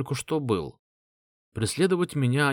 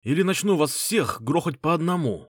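barking; 5 semitones higher than usual. Acted. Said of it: "рявкнул лысый".

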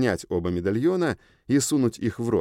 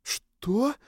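далёкое эхо; 8 semitones higher than usual. Acted. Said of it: "Далёким эхом прозвучало в голове".

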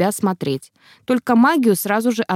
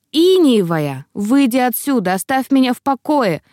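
louder, sharp barked order to get out; angry sick man yells at her to leave; 4 semitones higher, 3 dB louder than usual. Acted. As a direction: bark her away in anger. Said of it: "рявкнул Клей".

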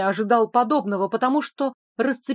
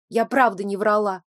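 usual speaking voice

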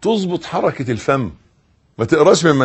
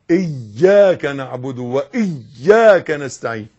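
slow, each word and shadda clear; slow careful recitation; slower than usual. Shown as a demonstration. Teacher showing the careful way to recite. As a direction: recite it slowly, weighting every letter. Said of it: "لا".

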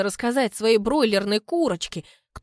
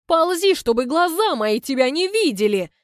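loud, higher, furious snarl at him; angry shout; 6 semitones higher, 6 dB louder than usual. A narrator's reading. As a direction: chase him off in a rage. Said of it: "со злостью". (злобно кричит)

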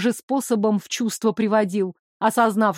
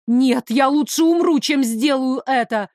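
громче и выше, яростно; отчаянно отказаться; яростный отказ; 3 semitones higher than usual. Acted. Героиня отказывается. (героиня яростно отказывается)

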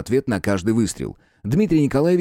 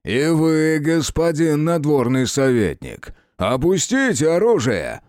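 higher, slow commanding voice; imperious order; 5 semitones higher, slower than usual. A narrator's reading. Official ordering the detective to disarm, imperious. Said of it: "повелительный голос".

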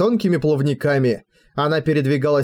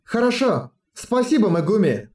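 put-on young girl voice; 6 semitones higher than usual. Chernosnezhka answers Megumi.

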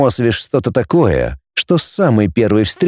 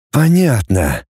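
grudging reply through gritted teeth; sullen, forced answer to the professor; slower than usual. Acted. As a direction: spit it out through clenched teeth. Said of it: "процедил Рома".

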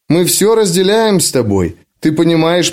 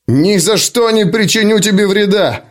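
higher, forceful roar of refusal; 6 semitones higher than usual. Acted. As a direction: roar it out defiantly. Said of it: "реву я".

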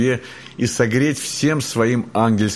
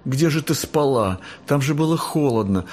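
tender babbling; 5 semitones higher than usual. Acted. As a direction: coo over a wet cat. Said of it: "залепетала Алиса". (нежный лепет)

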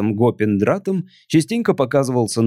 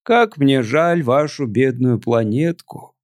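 put-on slurred drunk speech; slower than usual. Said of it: "заплетающимся языком выговорил пришелец".

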